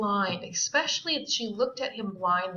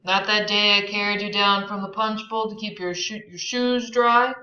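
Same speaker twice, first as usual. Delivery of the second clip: tender; 6 dB louder than usual. Acted. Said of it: "husky tenderness in his tone".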